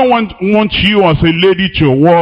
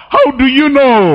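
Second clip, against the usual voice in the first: higher, pointed mock question; incredulous challenge; 7 semitones higher than usual. Preacher to congregation, mocking the church comparer with incredulous challenge. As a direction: challenge him as if you caught him out.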